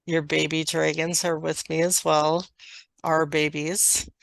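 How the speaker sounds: slow, measured channeled delivery; channeled message. Acted. Dragon clan sends love to a listener, slow channeled message. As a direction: speak evenly, pausing between phrases.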